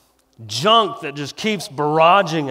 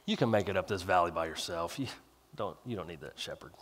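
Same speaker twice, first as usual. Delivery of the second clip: enemy's whisper; 9 semitones lower, 13 dB quieter than usual. Acted. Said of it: "A voice that says".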